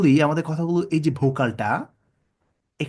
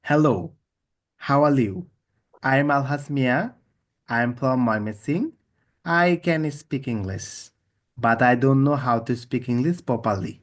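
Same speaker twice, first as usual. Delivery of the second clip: one tone; much slower than usual. Shown as a demonstration. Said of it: "এই একটা tone".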